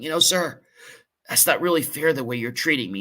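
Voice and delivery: retold protest, voice lifted a little. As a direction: raise the voice just a touch, pleading fairness. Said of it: "I raised my voice just a little bit".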